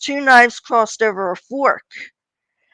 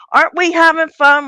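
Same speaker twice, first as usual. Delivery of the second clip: chirpy tease; 7 semitones higher, 6 dB louder than usual. Retold or imitated. Teasing stressed sister cheerfully.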